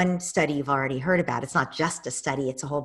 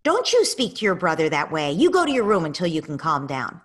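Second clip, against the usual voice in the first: louder, sharp reprimand; stern scolding parent; 7 dB louder than usual. Shown as a demonstration. Parent scolding an angry child, stern and loud. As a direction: send the child away firmly. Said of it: "to say".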